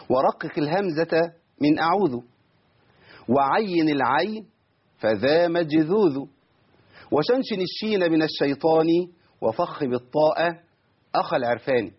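slow, measured poem delivery; verse recitation. Shown as a demonstration. Teacher recites a sheikh's verse, slow and measured. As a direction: recite the verse in metre, drawing out long syllables.

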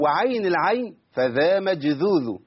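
slow, measured poem delivery; verse recitation. Shown as a demonstration. Teacher recites a sheikh's verse, slow and measured. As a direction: recite the verse in metre, drawing out long syllables.

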